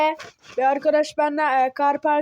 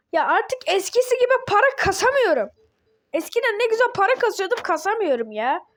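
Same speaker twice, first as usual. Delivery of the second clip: higher-pitched frustrated griping; exasperated complaint; 5 semitones higher, faster than usual. Real, not acted. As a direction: complain in a high, put-out voice. Complaining about earning no game money.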